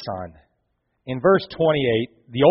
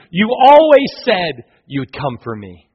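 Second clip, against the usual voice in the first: put-on 1 joyful child; 9 semitones higher, 8 dB louder than usual. Trapped son hears his father.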